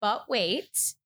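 pitchman teaser; infomercial. Pretend. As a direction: cut in like a TV ad host. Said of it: "it's like an infomercial".

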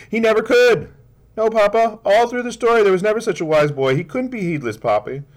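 put-on high, loud child's voice arguing eagerly; a small girl insisting to her papa; child pleading with her father, rushing her words; earnest little girl. Child Bessie argues story point.

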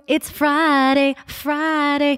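"Friday" drawn out and pitched high; Southern-tinged Friday. Real, not acted. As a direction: sing out a long, high "Friday". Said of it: "that you say Friday".

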